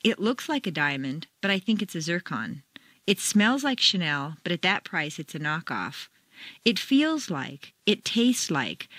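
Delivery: sceptical, meaning the opposite; doubtful opinion. Shown as a demonstration. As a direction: stress on looks, smells, feels. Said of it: "intonation makes the meaning the opposite".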